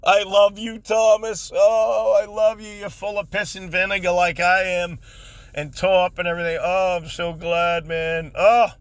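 high, delighted talk through laughter; laughing. Real, not acted. Host telling Thomas he loves him, laughing. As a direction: gush while recovering from a laughing fit. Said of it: "I'm not laughing at you".

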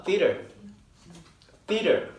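Theater said as tee-rer, flapped t; pronunciation model. Shown as a demonstration. Teacher models Theater for students to repeat, flapped American t. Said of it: "따라해보세요".

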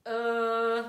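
loud, held puppet-fox "Uh"; playful fox voice, held long; Super Fox. Shown as a demonstration. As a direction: call "Uh" out as the fox character. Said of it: "in Super Fox's voice?".

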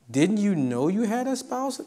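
teasing laugh. Retold or imitated. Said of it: "To which I say the same thing".

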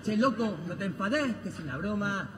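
low hammed-up Argentine accent. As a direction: do a cheeky Argentine accent, rough talk. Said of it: "hable usted en argentino".

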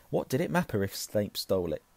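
ordinary delivery

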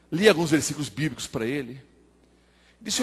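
usual speaking voice

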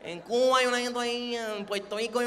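slurred Cuban and Puerto Rican accent, consonants dropped; imitated Cuban accent, words running together; Caribbean accent. Shown as a demonstration. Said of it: "no solamente en Acapulco hablan así".

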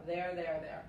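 "There" repeated, same sound as "their"; teacher repeats for listeners; pronunciation demo. Shown as a demonstration. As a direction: drill "There" for learners. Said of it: "se pronuncia igual".

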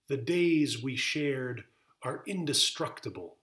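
measured poet's recital with deliberate phrasing; poetry reading. Acted. Poet reads an elegy to listeners, solemn poetry reading. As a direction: recite it line by line, weighting the phrases. Reads own poem aloud.

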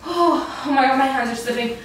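strained laugh; laughing in struggle. Real, not acted. Struggling in plank.

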